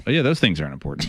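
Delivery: quick, offhand sarcasm; sarcastic. Real, not acted. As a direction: toss it off with mock agreement. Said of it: "That's sarcasm, by the way".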